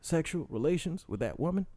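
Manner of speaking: a lightly voiced Clinton confessing; Bill Clinton impression. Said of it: "making my impersonation".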